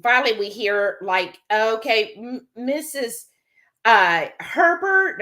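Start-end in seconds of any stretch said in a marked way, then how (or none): 1.5-5.2 hesitant page, name drawn out slowly; imitated hotel announcer. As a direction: stumble slowly through a paged name. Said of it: "we'll call you over the speaker".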